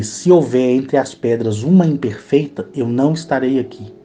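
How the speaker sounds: slow, grave pronouncement; solemn divine promise. Retold or imitated. God promising rain to the man, slow and solemn. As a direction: bless and warn like a deity. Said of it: "E eu falei".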